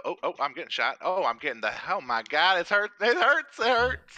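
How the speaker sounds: high, loud hammed-up cries of pain; mock pain cry. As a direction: play up getting shot, wailing. Getting shot in game.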